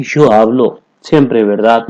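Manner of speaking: "Yo hablo siempre verdad" drawn out slowly; slow model sentence. Shown as a demonstration. Teacher modelling the full sentence for students, slowly. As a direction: stretch it out for learners to copy. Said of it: "तो आप क्या कहेंगे".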